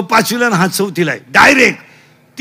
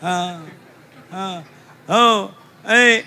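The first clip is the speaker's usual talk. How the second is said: ordinary delivery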